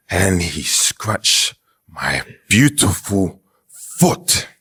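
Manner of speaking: slow, drawn-out dramatic telling; milk the tragedy slowly; slow, melodramatic complaint about a scratched foot. Real, not acted. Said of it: "Why did it be so dramatic".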